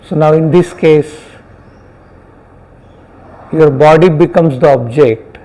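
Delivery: unhurried meditation guidance with long pauses; guided meditation. Real, not acted. Teacher guiding students to notice sounds and body sensations, guided meditation. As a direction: guide them gently, phrase by phrase, leaving silences.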